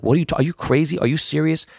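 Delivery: retold incredulity. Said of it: "He's like".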